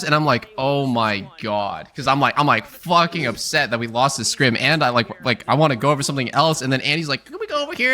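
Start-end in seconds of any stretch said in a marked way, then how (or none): 0.6-1.9 very slow, drawn-out, low "Oh my God"; exasperated groan. Retold or imitated. Inner reaction to boss interrupting. 7.2-7.9 much higher, softer mocking imitation; mock boss voice. Mocking boss's interruption.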